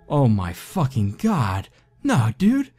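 very high hysterical voice. A narrator's reading. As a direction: near tears with fear. Hysterical friend describing voice.

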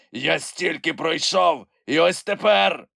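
high, despairing creature voice; Grampus yelling. A narrator's reading. Grampus despairs at the sea, frustrated creature wail.

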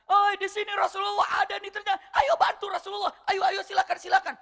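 high shouted call for help, with a laugh at the end; retold shout. Abu Hudzaifah bluffs to scare off attackers, high shouted call. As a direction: yell as if the whole army were behind you. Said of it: "beliau teriak".

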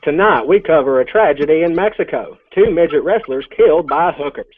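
mock evening-news anchor read; hammed-up news anchor voice; news broadcaster. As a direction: deliver it like a solemn TV anchor. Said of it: "like a news broadcaster".

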